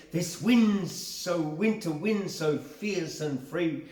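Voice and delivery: even, measured reading; poem recitation. Acted. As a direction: read it steadily, little drama. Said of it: "I want to do that again".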